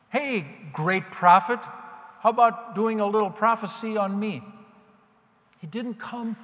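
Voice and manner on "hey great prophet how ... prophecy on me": loud, pushy mock petition; entitled demand. Mock petitioner ordering up a prophecy, entitled and loud. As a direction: call out as if the prophet owes you. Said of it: "with an attitude of entitlement".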